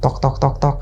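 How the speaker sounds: soft spoken tok tok sounds; mimicking a quiet knock on the door at night; imitated knocking.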